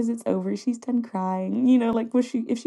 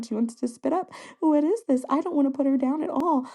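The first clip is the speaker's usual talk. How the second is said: nervous fretting; 3 semitones higher than usual. Retold or imitated. New mother voicing her worries about baby's health, increasingly nervous. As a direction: reenact mounting new-parent worry. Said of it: "how nervous I would be".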